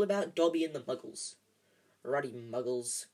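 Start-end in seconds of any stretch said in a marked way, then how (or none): 2.0-3.1 low, slow growl. Acted. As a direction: growl it under your breath. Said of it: "growled Hagrid".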